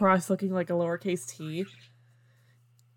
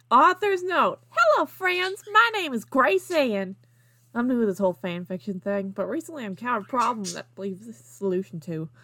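put-on Southern accent; 2 semitones higher than usual. Fan fiction mom greeting fellow mommies, Southern accent. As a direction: read it in a sweet-talking Southern accent. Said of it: "I had to read that in a southern accent".

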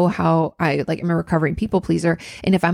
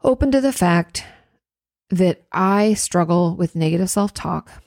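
calm bridge statement. Shown as a demonstration. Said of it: "what if we said".

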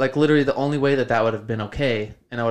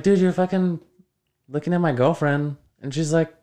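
higher, louder, heated telling-off; retold angry confrontation; 6 semitones higher, 4 dB louder than usual. Confronting the old man about his girlfriend, heated and higher. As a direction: hurl the accusation at the old pervert.

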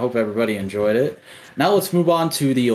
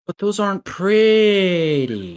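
put-on whiny child voice; 7 semitones higher, slower than usual. Mock-childish objection in argument.

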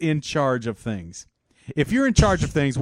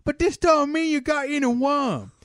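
insurance adjuster; 7 semitones higher than usual. Pretend. Friends riffing, playing a pompous adjuster voice. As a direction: ham up a pompous claims inspector.

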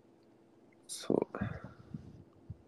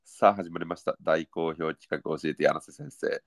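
narration voice. Pretend. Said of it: "こういうナレーションチックな時".

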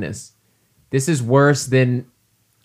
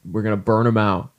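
hammed-up drill sergeant rally; rally the troops, tongue in cheek; gung-ho soldier. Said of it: "oorah, soldiers".

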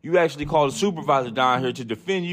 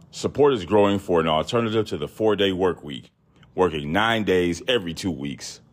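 news read. Acted. Reading an Insider article aloud, in a news read. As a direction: read the report out steadily.

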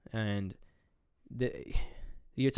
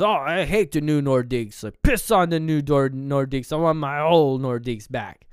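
louder mock outrage; acted hockey rant; 7 dB louder than usual. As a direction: grumble loudly like an aggrieved hockey fan. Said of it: "he goes".

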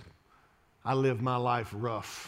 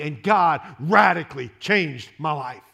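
usual speaking voice

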